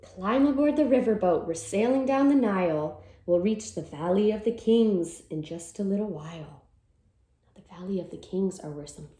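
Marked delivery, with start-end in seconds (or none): 0.0-6.6 lively storybook read-aloud; reading to children. Acted. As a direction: read it like a cheerful picture-book chant. Reads picture book aloud.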